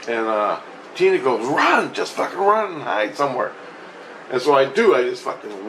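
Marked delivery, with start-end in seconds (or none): 1.4-3.5 urgent mock yell, high on the first word; imitated yelling. Tina yelling at me to get away, imitated urgent yell. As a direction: imitate an urgent yelled order. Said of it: "she's yelling at me".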